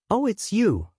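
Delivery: put-on high, delighted old lady; light up with recognition; excited. A narrator's reading. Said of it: "she says excitedly".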